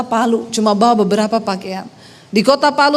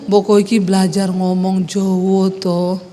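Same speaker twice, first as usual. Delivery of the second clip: husband's low Javanese; 6 semitones lower than usual. Retold or imitated. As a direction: coax her like the Javanese husband. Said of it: "tiap hari dia itu ngomongnya". (suami membujuk dengan logat Solo rendah)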